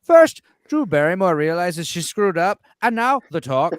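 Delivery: slow, loud narrator with rising inflection; Northern English Bastard. Acted. Imitating a YouTuber reading crew stories, slow and sing-song. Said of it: "do it in Northern English Bastards".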